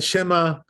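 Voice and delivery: "Shema" said with a plain Aleph, no throat sound; wrong Aleph sound. Shown as a demonstration. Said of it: "like an Aleph".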